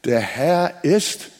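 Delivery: "Der Herr ist" drawn out slowly; slow lead-in to the stressed word; slow build. Shown as a demonstration. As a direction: stretch it out before the key word. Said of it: "Nächstes Wort".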